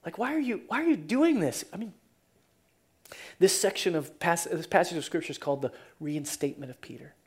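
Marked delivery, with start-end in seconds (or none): 0.2-1.7 higher-pitched, swooping hurt plea; acted wounded protest, pitch rising and falling; hurt questioning. Preacher as Peter asked a third time, hurt. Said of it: "Peter was hurt".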